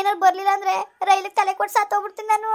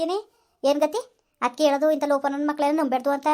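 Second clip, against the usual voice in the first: stern friend; 5 semitones lower than usual. Acted. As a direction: lower voiced friend, firm advice. Friend voice again. (ಗಟ್ಟಿಯಾದ ಗೆಳತಿಯ ಬುದ್ಧಿವಾದ)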